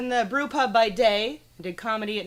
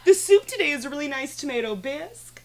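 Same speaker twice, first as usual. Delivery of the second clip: lightly bubbly higher server voice; Barbie voice; 5 semitones higher than usual. Retold or imitated. Server greeting customers, lightly higher Barbie voice. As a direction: chirp it out like a sweet Barbie. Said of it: "So I had to do this Barbie voice".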